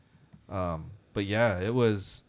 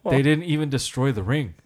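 loud, higher-pitched indignant moviegoer; imitated exasperated protest; retold outrage; 5 semitones higher, 8 dB louder than usual. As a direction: complain loudly, as if robbed of the ending. Stranger's outraged complaint continues.

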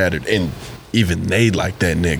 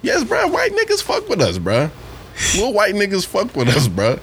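excited; 10 semitones higher than usual. Real, not acted. Excited insistence.

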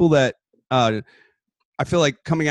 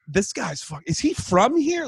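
mock disbelief; 5 semitones higher, slower than usual. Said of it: "you're like".

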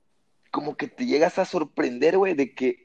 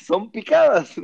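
insistent; 8 semitones higher, 5 dB louder than usual. Retold or imitated. Insisting on his word.

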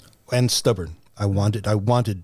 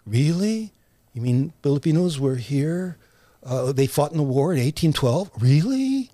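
amazed disbelief; 3 semitones higher than usual. Retold or imitated. Writer recounting learning of Filipinos in American history, incredulous. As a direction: replay astonishment, the last word leaping up.

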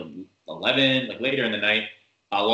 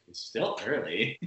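defeated coworker; 5 dB quieter than usual. Retold or imitated. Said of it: "she's already defeated".

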